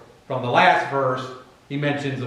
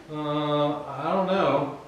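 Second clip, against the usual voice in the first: mock doubt; 4 dB quieter, much slower than usual. Mimics believers then doubting.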